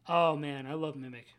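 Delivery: hushed, mock-swooning fan; mock dreamy fangirl. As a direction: breathe it out like a smitten fan. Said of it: "on the edge of my seat".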